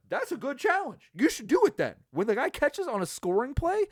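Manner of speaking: high, mock-cheerful praise; sarcastic mock praise of the coach. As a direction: fake approval dripping sarcasm. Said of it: "I was like".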